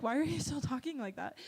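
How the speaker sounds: a playful hint of a Southern accent; teasing a friend in a mild Southern accent. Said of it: "I talk in a southern accent for fun".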